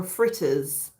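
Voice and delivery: "fritters" in a Jamaican accent. Shown as a demonstration. Host showing viewers how Caribbeans say fritters, Jamaican accent. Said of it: "if you wanna say it in an accent".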